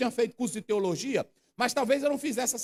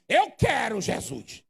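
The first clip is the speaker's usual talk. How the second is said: demanding; much slower than usual. Shown as a demonstration. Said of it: "ele se dirige assim".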